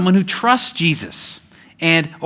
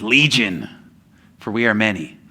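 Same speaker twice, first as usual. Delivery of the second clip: gravelly demon voice; 7 semitones lower, 4 dB quieter than usual. Retold or imitated. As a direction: lower demon voice for Legion. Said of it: "with a more gravelly voice".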